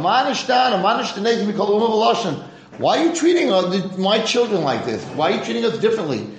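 high, pleading cry to God; rising wail of protest; anguished plea. Acted. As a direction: beg like a grieving father. Avraham crying out to God.

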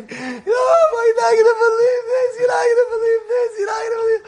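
high, tearful, breaking voice; crying with joy. Retold or imitated. Teddy crying to the rabbi on the phone. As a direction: choke out the news through tears. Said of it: "I hear him crying tears".

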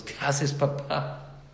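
retold children's surprised question. Children question father in story.

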